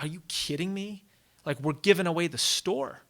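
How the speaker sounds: incredulous, rising indignation; mildly acted anger. Companions protesting a stacked treaty, acted anger. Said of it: "they're angry".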